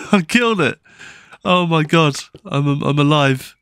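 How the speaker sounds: high, quick laugh of relief; giddy he survived. Real, not acted. Laughs after killing mob.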